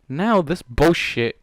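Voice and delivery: slow, disgusted drag; exasperated. Real, not acted. Reader fed up with the plot, slow disgust. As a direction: spit it out slowly in disgust.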